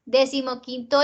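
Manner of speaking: "decimoquinto" slowed, leaning on QUIN; teacher stretching QUIN in "decimoquinto"; stress on QUIN. Shown as a demonstration. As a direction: put the force on the QUIN of decimoquinto. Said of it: "¿Dónde haces la fuerza?".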